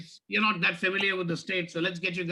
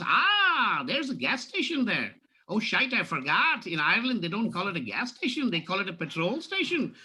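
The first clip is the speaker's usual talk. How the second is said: put-on Irish accent. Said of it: "the border of Ireland and Scotland".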